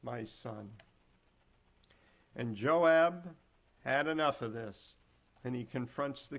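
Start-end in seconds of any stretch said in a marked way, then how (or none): 0.0-0.7 mild crying lament. Acted. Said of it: "the king was crying with a loud voice".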